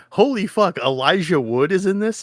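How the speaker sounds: high exclamation rising to a question; excited disbelief. Retold or imitated. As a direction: gasp it out with delighted surprise. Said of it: "and I went".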